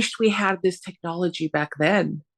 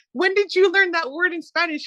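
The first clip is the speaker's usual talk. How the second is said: retold incredulous question; 11 semitones higher than usual. Retold sibling exchange, incredulous question.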